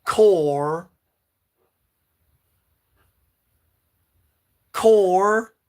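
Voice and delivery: loud drawn-out call with a rise. Real, not acted. Streamer calling out to chat, loud rising call. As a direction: call it out across the room.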